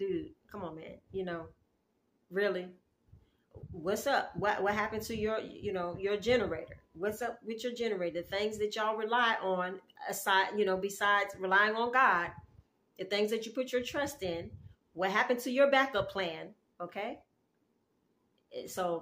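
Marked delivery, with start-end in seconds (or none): none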